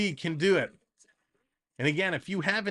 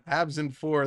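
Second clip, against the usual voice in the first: laughing; 2 semitones lower than usual. Real, not acted. Laughing at the prediction.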